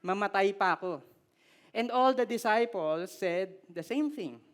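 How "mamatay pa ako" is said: emphatic Peter. Retold or imitated. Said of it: "with emphasis".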